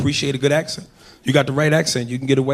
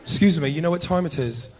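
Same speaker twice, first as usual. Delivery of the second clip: put-on English accent; 4 dB quieter than usual. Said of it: "I'll walk up to a woman and say anything".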